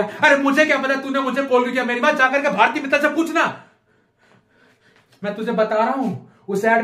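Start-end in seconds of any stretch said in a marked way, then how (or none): 0.0-3.6 higher-pitched exasperated outburst; comic fed-up rant; exasperated retort. Acted. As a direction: snap back at a nagging girlfriend, voice raised in pitch. Acted retort to nagging caller.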